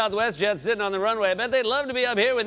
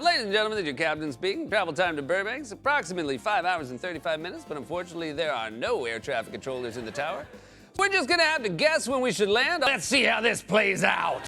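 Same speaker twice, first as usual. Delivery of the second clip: pilot announcement voice; 2 semitones lower than usual. Retold or imitated. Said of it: "imagine hearing that".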